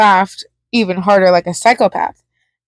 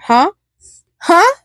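unhinged giggles; 9 semitones higher than usual. A narrator's reading. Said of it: "with one of his unhinged giggles".

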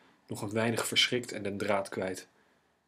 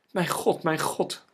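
higher, louder cry of distress; alarmed cry; 6 semitones higher, 4 dB louder, slower than usual. A narrator's reading. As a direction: call out twice in alarm. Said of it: "riep ze". (verschrikt uitgeroepen)

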